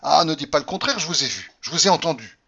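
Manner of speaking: high, loud furious accusation; furious shout. Acted. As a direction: shout down her denial. Mari qui crie l'accusation. (cri furieux, beaucoup plus fort)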